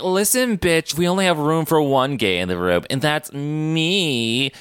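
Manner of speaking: sass him like a smug villain; mock villain sneer. Mocking villain Hideki's line.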